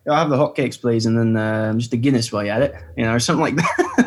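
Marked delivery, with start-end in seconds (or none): 0.1-2.7 lightly put-on British accent. Shown as a demonstration. Ordering hotcakes in a restaurant, putting on a British accent. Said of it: "little example of your British accent".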